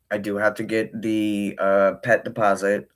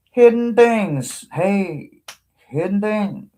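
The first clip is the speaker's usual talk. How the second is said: higher, slow drawn-out "hidden things"; singsong call; 8 semitones higher, slower than usual. Real, not acted. To the cards while shuffling, a high coaxing singsong. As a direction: coax it out like calling a pet.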